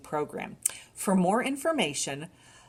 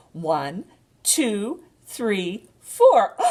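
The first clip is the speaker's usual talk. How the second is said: rising, louder count; excited counting; 3 semitones higher, 7 dB louder, much slower than usual. Shown as a demonstration. Librarian counting a duckling's feet excitedly. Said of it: "Try it again".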